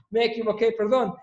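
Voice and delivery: sheepish, amused, high-pitched apology; laughing apology. Real, not acted. Teacher catches own error on the slide, laughing apology.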